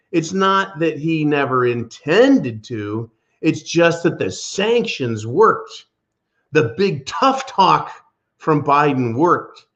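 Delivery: slow, mocking read of the quote; drawn-out sarcastic reading, leaning on each claim; satirical emphasis. Host mocking Pelosi's quote with slow satirical emphasis. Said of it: "the smart ass satirical emphasis".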